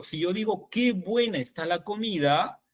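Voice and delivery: "qué" lifted and stressed in "qué buena está la comida". Shown as a demonstration. Teacher showing colleagues the emphatic qué, "qué" stressed. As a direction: punch "qué" as the emphatic word. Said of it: "ahí sí el qué tiene énfasis".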